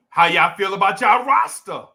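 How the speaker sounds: loud New Jersey accent, "roster" sounding like "rasta". Real, not acted. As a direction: call it out in New Jersey talk, dropping the r in "roster". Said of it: "I speak a certain way".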